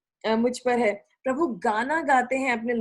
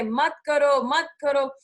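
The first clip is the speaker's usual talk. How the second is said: a mild mock warning, a bit louder; God warning his people not to, a touch louder; 2 semitones higher, 3 dB louder, slower than usual. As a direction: imitate a parent warning a child. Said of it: "God warning देते हैं".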